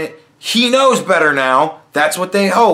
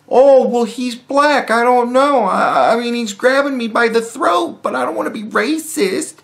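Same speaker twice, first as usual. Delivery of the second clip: a higher, hesitant voice mocking a timid woman; mock her as dithering and unsure; mock naive victim; 5 semitones higher than usual. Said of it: "Don't do this".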